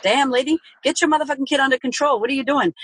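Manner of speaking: judgy scoff. Retold or imitated. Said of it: "pre-kids may have seen it and went".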